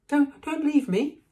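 high, loud, stammered plea; frightened pleading. A narrator's reading. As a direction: beg them in a panic. Neville begs not to be left.

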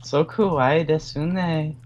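gushing anime fan voice; excited anime fan. Pretend.

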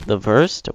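questioning "vurst" for "worst"; German-like V in WORST. Real, not acted. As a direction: echo "worst" with a V, rising. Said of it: "What am I, German?".

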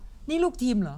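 slow, lightly stern question; a hint of a bossy team captain; mock deep tone. Boyfriend quizzing his girlfriend on the phone, mock stern. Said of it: "น้ำเสียงเข้ม".

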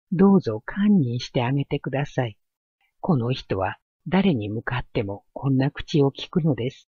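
quick, earnest begging; pleading young woman. Acted. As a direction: beg him hurriedly to forgive. お通 begs forgiveness, kneeling. (必死に懇願する若い娘)

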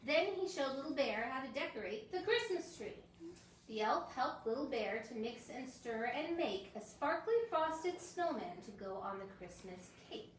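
storybook reading for little ones; reading to children. Acted. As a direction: read it like a bedtime story. Reads a children's book aloud.

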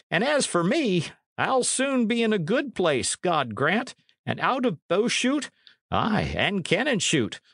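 a hint of a grim old archer; old archer's warning. Old archer warns Bennet.

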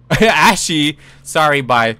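high, loud, laughing exclamation; laughing disbelief. Real, not acted. Player reacting to being called Ashy, high laughing disbelief. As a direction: repeat the insult through incredulous laughter.

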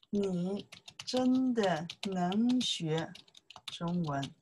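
slow, spaced-out 你真的能学 中文; slow model line. Shown as a demonstration. Teacher demonstrates the right sentence, slow and careful. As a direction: say 你真的能学 中文 slowly for the learner. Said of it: "Chinese more like say that one".

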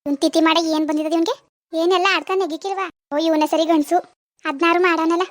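irritated scolding. Acted. Cursing the drunk, weeping man.

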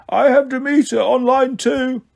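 high, slow, muffled snake voice; muffled female snake. Acted. Snake receptionist announces a call from the pocket, muffled. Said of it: "Martha, the snake's muffled voice".

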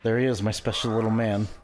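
gruff gravelly dwarf voice. Acted. Put-on voice.

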